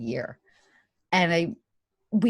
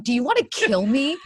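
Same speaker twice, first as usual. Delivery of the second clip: louder, half-laughing outrage; mock outraged protest; 3 semitones higher, 6 dB louder than usual. Wife answers husband's sad film suggestion, mock outraged protest. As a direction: protest loudly with a laugh breaking in.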